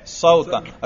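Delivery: صوتن ending in -an, sautan; صوتن with the nasb -an ending; accusative ending. Shown as a demonstration. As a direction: say صوتن as "sau-tan", with an a before the n. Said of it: "نصب کیا ہے؟".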